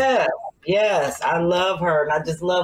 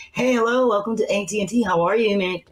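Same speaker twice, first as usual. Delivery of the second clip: bright, lightly put-on phone-operator greeting; daytime work voice; 2 semitones higher, faster than usual. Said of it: "that daytime work voice".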